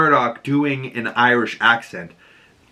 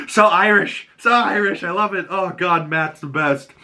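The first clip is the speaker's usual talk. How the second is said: high, excited gushing; 7 semitones higher than usual. Retold or imitated. Fan gushing over the Irish accent, high. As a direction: squeal with delight at the accent. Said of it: "I was like".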